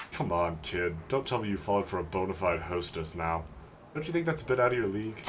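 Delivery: understated, doubting tough guy; older man, skeptical. Acted. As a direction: talk the kid down as the older guy.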